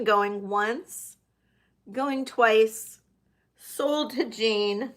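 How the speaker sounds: auctioneer. Pretend. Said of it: "I'm gonna count this down for Jane".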